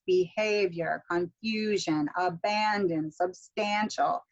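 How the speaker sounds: slow list, second syllable stressed in "Behavior", "confusion", "abandon", "substantial"; measured words, each leaning on its second syllable, "Behavior" to "substantial". Shown as a demonstration. Teacher giving maze answers, second-syllable stress from "Behavior" to "substantial". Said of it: "do the same stress pattern".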